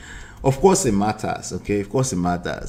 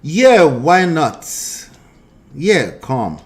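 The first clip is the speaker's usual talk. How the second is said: mock imitation; 3 semitones higher, 4 dB louder, much slower than usual. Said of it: "maybe she's just paraphrasing".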